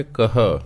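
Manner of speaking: ਕਹਾ said without nasal; no nasal ending. Shown as a demonstration. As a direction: say ਕਹਾ plain, not nasal. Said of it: "ਇੱਥੇ ਇਸ ਨੂੰ ਪੜ੍ਹਨਾ ਹੈ". (ਬਿਨਾਂ ਬਿੰਦੀ ਕਹਾ)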